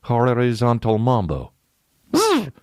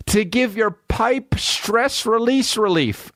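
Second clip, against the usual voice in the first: much higher, slow, stiff robotic read; 13 semitones higher, slower than usual. Retold or imitated. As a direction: squeak it out like a cheap robot. Robot ad, high voice.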